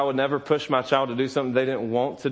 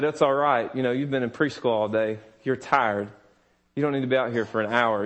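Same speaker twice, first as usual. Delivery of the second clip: gentle reassurance; 5 semitones lower than usual. Pretend. Imagined comforting his tired son.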